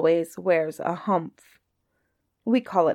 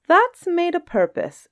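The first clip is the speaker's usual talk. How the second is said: genie voice; 11 semitones higher than usual. Acted. Djinn explains the hump.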